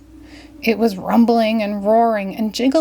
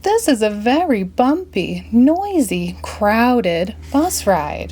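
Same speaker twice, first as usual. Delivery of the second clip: put-on high, slowing boyish complaint; boy complaining, higher; Billy McNilly; 3 semitones higher, slower than usual. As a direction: stretch out crowded bus ride. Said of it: "cried Billy McNilly".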